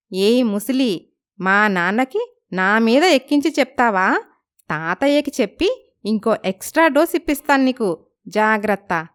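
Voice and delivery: mock-scold the old lady playfully; cheeky young girl. Girl teases grandma.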